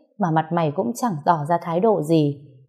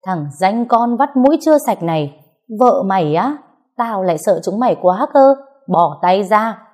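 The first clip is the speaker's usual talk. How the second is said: growled through teeth; 3 semitones higher than usual. Acted. Brother-in-law threatening the young husband, seething and raised. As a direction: spit the words at him through clenched teeth. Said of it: "nghiến răng nghiến lợi gằn lên".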